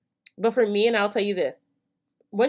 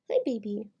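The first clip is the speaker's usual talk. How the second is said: whispering; 3 semitones higher, 4 dB quieter than usual. Real, not acted. Greeting the baby, whispered.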